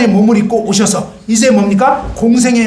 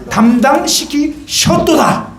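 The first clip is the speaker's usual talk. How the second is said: slow, stretched-out final word; drawn-out verse ending; 3 semitones higher, much slower than usual. Acted. Preacher stretching out the verse for the congregation. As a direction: lean on each syllable of 담당시키셨도다 slowly.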